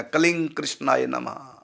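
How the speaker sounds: कलिंग with ng running into कृष्णाय नमः; joined ng pronunciation. Shown as a demonstration. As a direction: link कलिंग to कृष्णाय through an ng. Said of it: "वो अंगा लगेगा".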